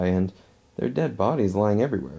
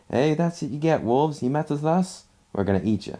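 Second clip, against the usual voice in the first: retold yell; 5 semitones higher than usual. The crazy one taunts the wolves, mildly mock-yelling. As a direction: imitate someone calling out, without really shouting. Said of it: "just yells out".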